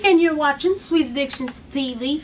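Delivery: talking around a wad of gum; chewing gum. Real, not acted. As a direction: gum in the mouth while speaking. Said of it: "I had gum in my mouth".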